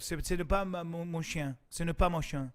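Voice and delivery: put-on French accent; showing off French. Shown as a demonstration. Host shows off after studying in Europe, French accent. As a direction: slip into French, affecting the accent. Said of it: "Sorry, that's French".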